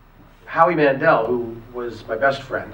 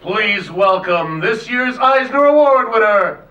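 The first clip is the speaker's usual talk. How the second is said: slow, high, loud announcer read; stately narrator voice; 8 semitones higher, 8 dB louder, much slower than usual. Shown as a demonstration. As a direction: announce it slowly like a grand narrator. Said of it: "in his very stately narrator voice".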